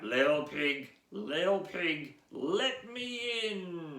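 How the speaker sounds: wolf wheedling at the door, lightly voiced; wolf coaxing. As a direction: draw out the plea. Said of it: "wolf at the door".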